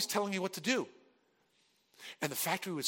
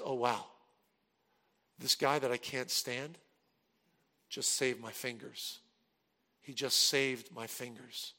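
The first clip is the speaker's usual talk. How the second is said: stunned realization; 5 semitones lower, 6 dB quieter than usual. Retold or imitated. Stunned realization after near accident.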